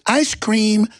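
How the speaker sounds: put-on harmless old man. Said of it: "and he goes".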